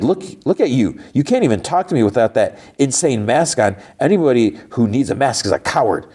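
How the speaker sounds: mock him for hiding behind the mask; scornful taunt.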